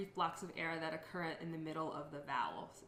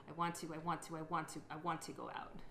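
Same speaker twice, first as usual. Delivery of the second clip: partial phrase repetition; 2 semitones lower, 3 dB quieter than usual. Shown as a demonstration. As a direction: repeat "I want to" several times. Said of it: "a partial repetition would be".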